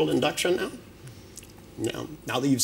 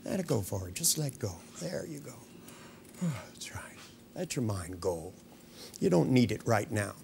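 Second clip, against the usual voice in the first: hypnotic induction. Real, not acted. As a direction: lull them gently into trance. Hypnotist guiding trance induction.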